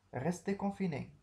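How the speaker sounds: a clear command to stay home; firm order. Shown as a demonstration.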